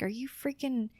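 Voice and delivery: imitating a friend's amazement; amazed exclamation. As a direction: gush with disbelief. Friend Katie's amazed message.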